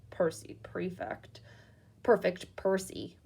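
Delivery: sarcastic mutter. Acted. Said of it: "muttered Fred".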